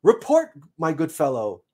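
high, loud first word, then settling; commanding seed. Acted. Seed orders the squirrel messenger to report, commanding. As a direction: order a report with mock grandeur.

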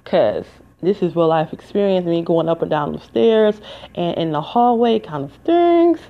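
muffled through a face mask. Real, not acted. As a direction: talk with a mask over mouth. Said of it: "I have my mask on my face".

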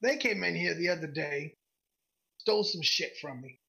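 lightly voiced gruff woman shopkeeper; a hint of gruff merchant. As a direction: greet a customer in a mildly gruff voice. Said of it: "she's got this gruff voice".

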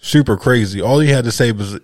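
ordinary delivery

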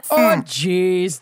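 broad Minnesotan "Oh, jeez" with a long round O; hammed-up Minnesota folksy voice; Minnesotan accent. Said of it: "unleash their worst Minnesotan accents".

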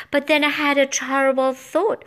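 usual speaking voice

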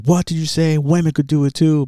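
a hint of a huffy proud woman; mock offended Helen. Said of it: "and she's like".

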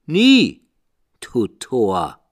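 very high, loud raven shriek; high piercing raven cry; raven's shriek. A narrator's reading. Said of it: "Sprach der Rabe".

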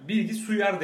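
"Bilgi suyar" said in place of bilgisayar; mispronounced word. Retold or imitated. Friend mimics the Adana way of saying computer, lightly. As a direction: say "Bilgi suyar" like a local speaker getting the word wrong. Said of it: "Bilgisayara yıllardır".

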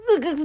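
tight strained grunt of restraint; stifled straining noise; straining to hold back. Shown as a demonstration. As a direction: grunt as if holding excitement in. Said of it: "なんか我慢してる感じ".

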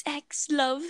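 whispered mock British farewell; unvoiced British-style whisper; whispered sign-off. Co-host echoing the sign-off, whispered.

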